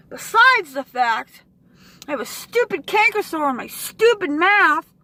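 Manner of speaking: loud tearful complaint; near tears. Real, not acted. Venting to viewers about her canker sore, tearful. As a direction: voice cracking as she complains.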